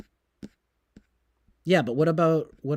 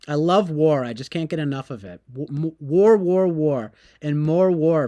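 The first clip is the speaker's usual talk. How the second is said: louder mock enthusiasm, hammering war; overdone fake cheer for war; sarcastic; 5 dB louder than usual.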